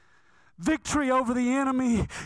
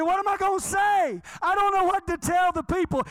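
high, raised-pitch protest to God; protesting prophet; 10 semitones higher, 3 dB louder than usual. Acted. Isaiah asking God what to preach, protesting. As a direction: plead helplessly at a high pitch.

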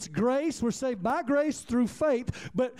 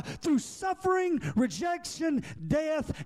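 higher, ringing preacher's cry; preaching at full force; 5 semitones higher than usual. Acted. Preacher voicing Jesus to the congregation, full force. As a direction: proclaim it like a throne is yours.

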